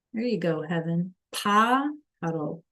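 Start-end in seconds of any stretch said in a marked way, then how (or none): 1.3-2.6 Pájaro stretched out slowly, each syllable clear; slow careful teacher model; slow demo. Shown as a demonstration. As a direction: model the hard word slowly. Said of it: "It's a hard word".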